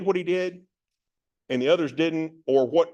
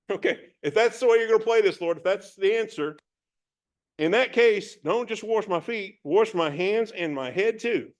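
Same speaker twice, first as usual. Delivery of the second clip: eager Peter; 4 semitones higher than usual. Acted. Peter tells Jesus to wash all of him, eager. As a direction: swing from refusal into all-in enthusiasm.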